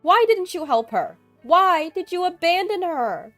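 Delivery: high, very loud screaming rage; yelling loudly. A narrator's reading. Mother-in-law yelling at Amy over the phone, screaming. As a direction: yell each accusation at full force. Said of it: "just yelling loudly while crying".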